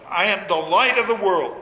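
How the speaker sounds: light stressed, falling firmly; emphatic scripture reading. Shown as a demonstration. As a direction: read it as a weighty declaration. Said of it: "listen to what follows".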